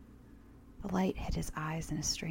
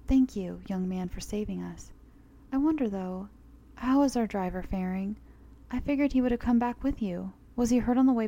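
put-on elderly woman voice; 4 semitones higher, 4 dB louder than usual.

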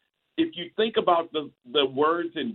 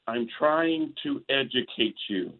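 slow, measured condescension, imitating a polished wrestler; talking down; 2 semitones lower, slower than usual. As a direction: spell it out patiently as if to slower listeners. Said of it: "talking down".

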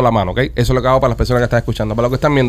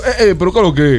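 imitating Dominican accent; 3 semitones higher than usual.

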